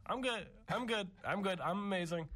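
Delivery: high-pitched insistence, retold; imitated kid reassurance. Telling dad after the bike crash, high insistent reassurance. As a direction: mimic a kid brushing off a fall.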